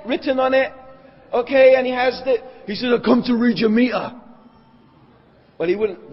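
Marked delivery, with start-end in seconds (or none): 2.9-4.1 put-on English accent for a meter man; casual English-accented doorstep announcement. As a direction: play a caller with an English accent. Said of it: "that's an English accent".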